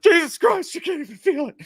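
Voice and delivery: high, loud exasperated exclamation; mock frustrated actor; exasperated dude. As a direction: blurt it out in frustration. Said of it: "that dude's just like".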